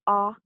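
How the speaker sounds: A said ah, as in art; ah vowel sound. Shown as a demonstration. Teacher introducing the last symbol, open ah. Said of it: "which represents the".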